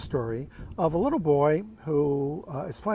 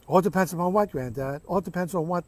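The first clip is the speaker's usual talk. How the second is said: put-on impatient little boy; 3 semitones higher than usual. Boy impatiently questions his grandfather.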